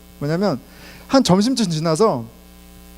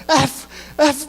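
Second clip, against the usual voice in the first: mock swearing; 6 semitones higher than usual. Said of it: "막 욕을 하면서 일을 해요".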